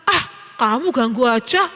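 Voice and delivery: mildly irritated, rising high at the end; annoyed brush-off. Acted. Older brother busy playing a game, annoyed. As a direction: wave off a pestering sibling.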